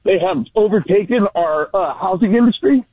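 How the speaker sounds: talking while winded from outdoor work; breathless, catching air between phrases; out of breath. Real, not acted. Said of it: "I'm a little out of breath".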